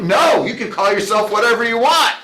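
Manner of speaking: mildly shouted, eager go-ahead; enthusiastic reassurance. Retold or imitated. Speaker humoring the kidding waiter, enthusiastic reassurance. Acting emphatic reply to waiter.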